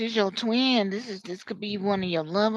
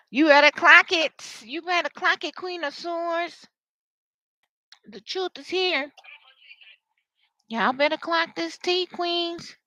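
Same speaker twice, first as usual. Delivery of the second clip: sassy queen talk; 7 semitones higher than usual. Acted. Reader mimics a client clocking the tea, sassy queen talk. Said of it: "Somebody may talk like this too".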